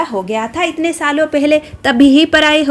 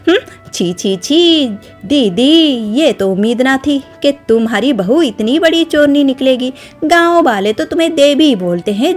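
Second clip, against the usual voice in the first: angry taunting. Acted. Shashirekha taunting Kalavati before the villagers, angry raised jeering. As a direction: jeer at them so the whole village hears. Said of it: "बहुत जोर से चिल्लाकर बात".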